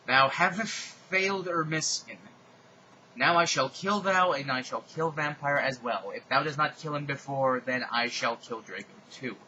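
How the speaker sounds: mock-menacing raspy threat; Darth Vader voice. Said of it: "Darth Vader said evilly in his raspy voice".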